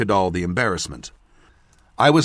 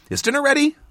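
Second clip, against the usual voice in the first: gasping lightly between words; out of breath; faster than usual. Acted. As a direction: still a little winded. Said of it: "slightly out of breath".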